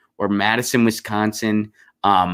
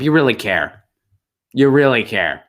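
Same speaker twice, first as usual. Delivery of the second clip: sarcastic praise; 3 semitones higher, 4 dB louder than usual. Real, not acted.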